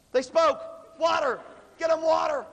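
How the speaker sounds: high, loud excited shouting; hammed-up ecstatic yelling; overjoyed parent. Acted parents thrilled at first word.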